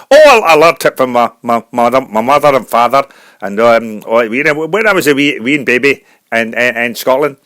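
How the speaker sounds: halting Scottish brogue; Scottish accent. Acted. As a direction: reminisce haltingly as a Scottish singer. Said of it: "a Scottish singer".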